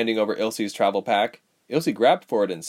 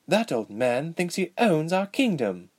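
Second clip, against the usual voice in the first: bitter; 7 semitones higher than usual. Acted. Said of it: "she thought bitterly".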